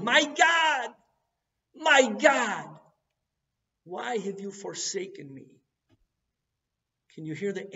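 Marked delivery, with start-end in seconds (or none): 0.0-5.6 high, loud cry of anguish; anguished yell. Retold or imitated. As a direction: cry it out to heaven, much higher and louder. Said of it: "He's yelling".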